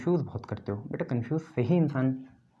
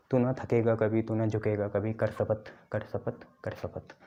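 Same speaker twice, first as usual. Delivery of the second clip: poem recitation fading out. Pretend. Teacher recites a pledge poem to motivate students, fading to a whisper. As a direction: let each कर शपथ fade until it is only breath.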